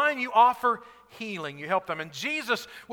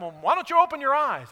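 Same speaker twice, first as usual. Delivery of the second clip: mock yell; 4 semitones higher, 4 dB louder than usual. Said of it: "You're not screaming at him".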